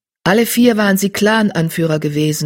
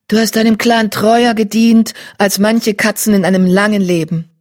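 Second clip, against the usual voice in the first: higher, louder wise leader; wise she-cat voice; 4 semitones higher, 4 dB louder than usual. Acted. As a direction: praise her with respect. Blue-grey she-cat speaks.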